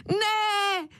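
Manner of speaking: put-on a child's despairing shout; cry of no. A narrator's reading. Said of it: "vykřikl Ferda".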